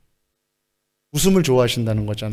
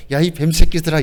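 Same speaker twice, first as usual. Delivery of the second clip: easy, light delivery with a smile; put-on smiling scolding; mock smiling insult. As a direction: say the insult as if pleasantly amused. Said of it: "이렇게 웃으면서".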